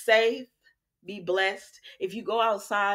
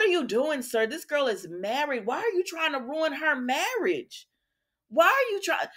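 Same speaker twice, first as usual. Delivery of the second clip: exasperated scolding; 5 semitones higher than usual. Real, not acted. Scolding Liam for kissing Steffi.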